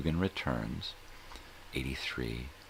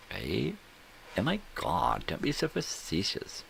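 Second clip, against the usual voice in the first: mock indignant; 11 semitones higher than usual. Co-host cracks a joke, mock outraged high reply. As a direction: scold the joke in fake shock.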